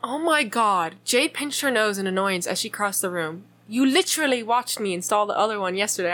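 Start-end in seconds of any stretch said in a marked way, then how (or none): 3.7-6.1 put-on British accent. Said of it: "say literally in a British accent every time".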